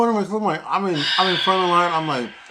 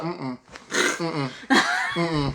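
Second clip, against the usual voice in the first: laughing refusal; 5 semitones higher, much slower than usual. Retold or imitated. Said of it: "I was like".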